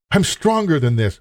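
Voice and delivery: proud boast. Retold or imitated. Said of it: "the sin of pride that says".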